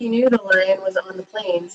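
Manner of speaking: ordinary delivery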